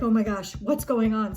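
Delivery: loud, alarmed outburst; mock panic. Gymnast whose heart is racing before competing, loud mock panic. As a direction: play startled panic at full voice.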